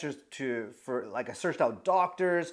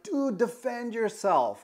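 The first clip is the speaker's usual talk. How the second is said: higher, slower mock yell at no real volume; retold scream; 5 semitones higher, slower than usual. Man running over to his friend, mock-screaming to him. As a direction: urge him on in a stretched, restrained holler. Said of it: "I start screaming and I start running over".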